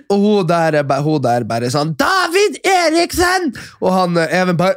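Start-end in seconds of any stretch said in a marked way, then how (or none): 2.0-3.5 high, slow shouted name; hammed-up drunk yell, pitched high; mock drunken yell. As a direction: call the name out across the hall. Drunk woman yelling at awards.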